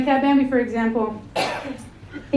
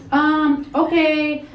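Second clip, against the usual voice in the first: put-on older Hispanic woman Siri; 3 semitones higher than usual. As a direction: voice an older Mexican mom giving directions. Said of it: "older Hispanic woman who spoke English as a second language".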